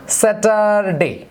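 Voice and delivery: slow, each syllable of স্যাটারডে split apart. Shown as a demonstration. Teacher splitting স্যাটারডে into syllables for students. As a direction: spell out স্যাটারডে in beats. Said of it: "যেমন".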